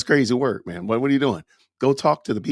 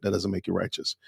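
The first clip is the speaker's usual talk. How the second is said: whispered repeat, no voice at all; 6 semitones lower, 8 dB quieter than usual. Shown as a demonstration. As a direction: drop to a breathy whisper for the repeat.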